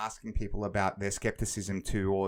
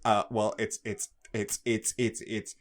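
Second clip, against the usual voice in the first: nerdy stutter. Retold or imitated. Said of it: "he just starts stuttering".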